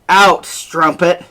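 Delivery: a jealous husband turns on his wife, furious; furious insult. Acted. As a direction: spit out the insult in rage. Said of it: "he calls her a strumpet".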